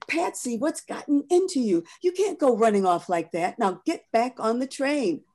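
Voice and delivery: put-on firm mama calling her child back; scolding mother. Mother pulling her daughter back to the train, lightly voiced and scolding.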